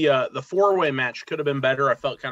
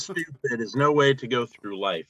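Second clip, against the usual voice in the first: Bluto quote; slower than usual. Retold or imitated. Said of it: "Who is that?".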